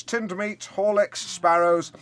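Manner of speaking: ordinary talk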